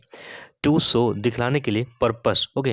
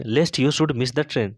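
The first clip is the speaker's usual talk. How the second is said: slow dictation; much slower than usual. Shown as a demonstration. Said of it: "teacher models English sentence slowly".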